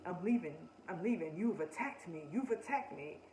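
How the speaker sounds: hammed-up whiny fake tears, rising at the end; a touch of fake weeping; mock fake crying. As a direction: pretend to cry to guilt her. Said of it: "trying to muster up some fake tears".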